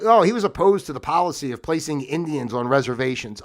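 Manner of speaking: lightly mocking the official account; sarcastic echo of a complaint; mock disapproval. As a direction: quote it as a mock accusation. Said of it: "they make it like he's a bad guy".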